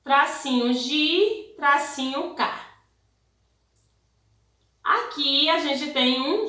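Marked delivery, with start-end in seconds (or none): 0.0-2.7 syllable-by-syllable dictation. Shown as a demonstration. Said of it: "Vamos escrever ma".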